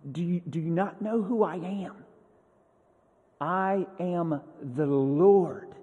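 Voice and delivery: God asserting who he is, with deliberate pauses; heavy emphasis. Acted. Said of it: "he does come with a heavy emphasis".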